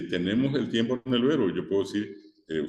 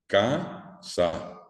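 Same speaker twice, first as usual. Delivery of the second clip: "casa" split in two, first syllable held; stress on first syllable. Shown as a demonstration. Teacher shows students where the accent falls, stressed first syllable of "casa". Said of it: "tienen el acento".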